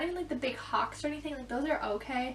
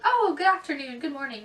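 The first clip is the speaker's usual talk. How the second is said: imitating bus driver; 2 semitones higher, 5 dB louder than usual. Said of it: "he's like".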